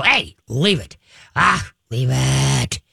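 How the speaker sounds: low, slow, firm "Ah, leave it"; steady, firm correction; firm command. Shown as a demonstration. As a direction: correct the dog calmly and firmly. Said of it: "just blast him and go".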